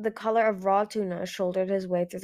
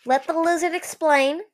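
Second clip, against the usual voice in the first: raised, louder menacing order; growled interruption; 8 semitones higher, 7 dB louder than usual. A narrator's reading. Skywing cuts off the brother, growling. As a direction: cut them off with a growl. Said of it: "Eagle growled low in his throat".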